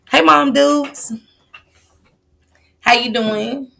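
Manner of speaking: high, loud, drawn-out greeting; long, loud hello to someone dear; calling out. Real, not acted.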